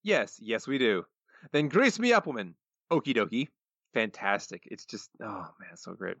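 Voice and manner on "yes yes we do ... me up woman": Willie voice. Retold or imitated. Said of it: "Groundskeeper Willie".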